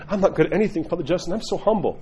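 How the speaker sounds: mild mock false modesty; sheepish. Parishioner telling Father how humble they are, mock sheepish. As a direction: play humble, lightly put on. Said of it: "sheepish and going like".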